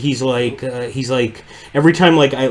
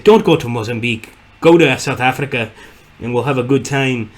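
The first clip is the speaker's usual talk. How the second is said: lightly imitated South African accent; a rough go at a South African fellow's accent; 3 dB louder than usual. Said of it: "trying to recreate a South African".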